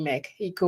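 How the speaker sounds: "Mexico" with the x softened to an h; Spanish pronunciation. Real, not acted. Dreaming aloud of time abroad, Spanish pronunciation. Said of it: "I said Mexico".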